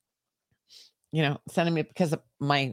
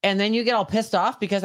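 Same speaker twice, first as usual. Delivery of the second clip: exasperated rant; 6 semitones higher than usual. Real, not acted. Rant about stranger messages.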